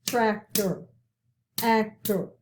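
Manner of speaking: "Doctor", "tractor", "actor" split into two clear beats each; syllable by syllable. Shown as a demonstration. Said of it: "let's hear the syllables".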